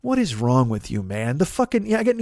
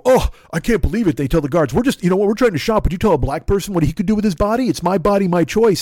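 mock whiny protester; 5 semitones higher, 4 dB louder, faster than usual. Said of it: "they go".

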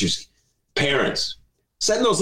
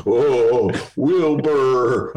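Mister Ed imitation; much slower than usual. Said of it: "That's my Mister Ed imitation".

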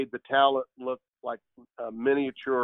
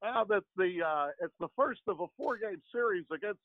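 Harry Caray impression; 9 semitones higher than usual. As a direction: do the old Cubs announcer, hamming it up. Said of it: "one of my favorites is, uh, is Harry Caray".

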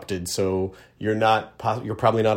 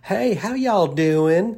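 hearty greeting; 7 semitones higher, slower than usual. Real, not acted. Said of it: "That's what we would say".

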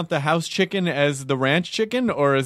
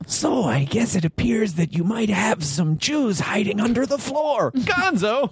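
high-pitched mock German interrogator; hammed-up German, pitched high and building higher; German accent; 9 semitones higher than usual. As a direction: accuse them in a put-on German accent. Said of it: "That's a better German accent".

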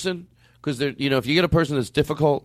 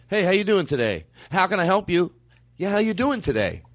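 stubborn scripted exchange; 4 semitones higher than usual. Shown as a demonstration. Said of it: "exactly the way it goes down".

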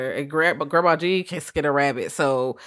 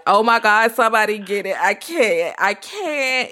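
mock panic; 4 semitones higher, slower than usual. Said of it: "I'm standing on a chair screaming".

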